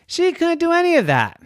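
high, fast mock wail; hammed-up cry; mock despair. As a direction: throw up your hands in mock despair. Dramatic high exclamation.

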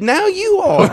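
high, laughing barber's punchline. Retold or imitated. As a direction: deliver it cracking up. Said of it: "And he said".

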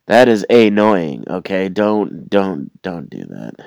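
loud, slow, irritated scold; annoyed scolding. Acted. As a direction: lean into the annoyance, loudly. Scolding the imagined speaker.

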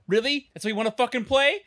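high, fast mock indignation; mock outrage. Podcaster mimicking Archie's outrage at Hiram, high and fast. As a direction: play Archie scoffing at an illegal hold. Archie mocked in a fight recap.

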